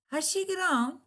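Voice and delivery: "Has she grown?" high, she hit hard; surprised exclamation stressing she; emphatic stress. Shown as a demonstration. Teacher models emphatic stress to show surprise. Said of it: "operator and subject usually receive emphatic stress".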